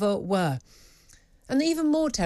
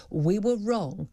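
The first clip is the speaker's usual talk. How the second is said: demanded apology; 5 semitones lower than usual. Pretend. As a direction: speak it like a forced apology.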